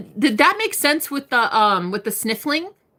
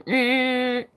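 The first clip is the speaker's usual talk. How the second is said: ship horn imitation; 2 semitones higher than usual. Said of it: "sounded like a Navy ship, like".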